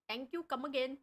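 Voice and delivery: mild put-on Indian accent, shop clerk farewell; a light Indian accent, saying goodbye to a customer; lightly done Indian accent. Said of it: "my hidden talent, which is my Indian accent".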